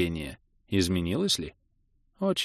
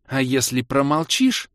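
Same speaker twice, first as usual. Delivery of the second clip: вкрадчиво и медленно, выше обычного; искушай, как доморощенный дьявол; искушающий шёпоток; 6 semitones higher, 3 dB louder, slower than usual. A narrator's reading. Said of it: "зашипел ей на ухо, будто доморощенный дьявол-искуситель". (голосом дьявола-искусителя, без настоящего шёпота)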